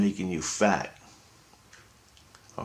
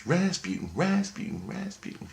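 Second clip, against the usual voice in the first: high eerie calling; 11 semitones higher, 4 dB quieter than usual. Retold or imitated. Voice repeating name all life.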